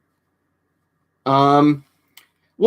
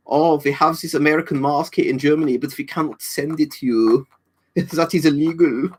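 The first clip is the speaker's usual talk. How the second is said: mock German accent; 4 semitones higher than usual. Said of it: "More German impersonations".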